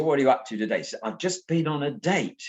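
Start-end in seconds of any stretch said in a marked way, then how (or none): 0.0-0.8 lightly voiced Cockney old man; a touch of chatty Cockney; Cockney accent. Old man greets the young boy, light Cockney accent. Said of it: "lovely Cockney sort of accent". 1.0-2.4 higher-pitched, lightly put-on Cockney boy. Boy tells old man his news, high Cockney imitation. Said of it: "who's also a Cockney".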